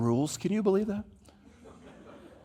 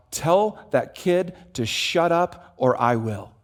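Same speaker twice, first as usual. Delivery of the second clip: put-on gruff old man; slower than usual. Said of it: "he says out loud".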